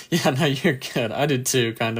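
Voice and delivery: slightly croaky, just woke up; hoarse morning voice. Real, not acted. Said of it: "my voice is a little more croaky".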